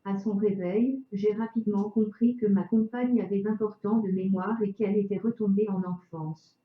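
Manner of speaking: chipper text to speech voice; synthetic voice. Real, not acted. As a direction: speak like a computer speech synthesizer. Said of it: "avec une voix de synthèse".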